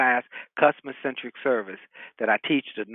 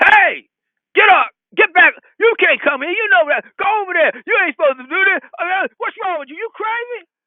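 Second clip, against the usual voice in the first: shrill, very loud, high-pitched hollering; 9 dB louder than usual. Retelling how the man directing traffic hollered at you, imitating a man hollering. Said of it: "the guy who's directing traffic hollers at me".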